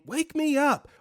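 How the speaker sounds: high desperate scream for help. Retold or imitated. Dreamer screaming to wake up from paralysis, high desperate yell. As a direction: shriek it like trapped in a nightmare. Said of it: "so I started screaming".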